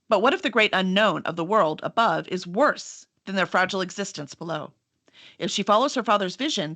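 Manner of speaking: dramatic back-cover reading voice; steady, measured book-jacket narration; book blurb read. Acted. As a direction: read it like a movie trailer blurb. Reads back cover copy.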